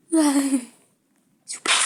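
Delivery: drawn-out plea. Acted. Begging to survive.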